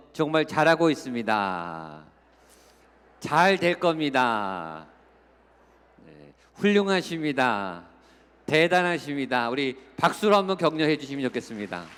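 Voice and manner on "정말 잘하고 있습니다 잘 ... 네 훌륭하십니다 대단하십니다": encouraging the neighbor. Shown as a demonstration. Pastor shows the congregation how to praise a neighbor, hearty and encouraging. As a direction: lift them up with hearty encouragement. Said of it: "옆에 분을 향해서".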